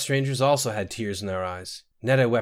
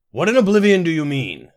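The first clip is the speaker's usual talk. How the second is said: loud, high burst of alarm; outraged cry; 8 semitones higher, 9 dB louder than usual. A narrator's reading. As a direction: cry out in shocked demand. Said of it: "Munthan cried".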